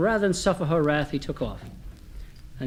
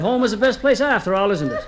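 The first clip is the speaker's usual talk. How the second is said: higher-pitched acted reproach; indignant wife; 6 semitones higher than usual. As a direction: needle a husband as the offended wife. Wife's acted quarrel with husband.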